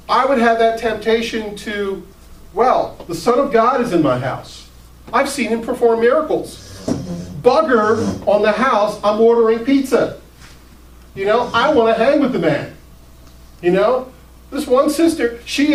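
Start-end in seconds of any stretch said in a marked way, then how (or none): 2.5-12.7 eager, raised voice; excited. Retold or imitated. Pastor imagines ditching chores, eager and raised.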